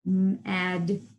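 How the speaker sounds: "M-A-D" said sound by sound, slowly; segmenting sounds. Shown as a demonstration. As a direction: stretch out "M-A-D" one sound at a time. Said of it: "say it slowly".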